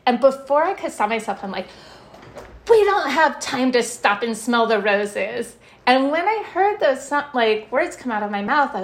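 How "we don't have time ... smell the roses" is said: retold yell. Stressed mother to son at the roses, mild mock yell. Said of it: "literally yelling at my son".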